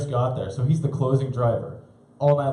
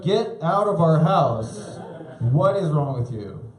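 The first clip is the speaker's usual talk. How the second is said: slow stern scold; slower than usual. Retold or imitated. Parents kicking him out.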